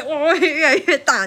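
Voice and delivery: laughing slowly at the growing rip; drawn-out laughing 哇; laughing as the tear gets bigger. Real, not acted. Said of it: "laughing retelling".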